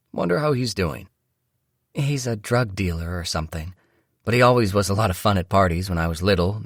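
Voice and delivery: wife voice. Acted. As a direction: lift the pitch, gaze at the sky. Narrator voices wife Mia.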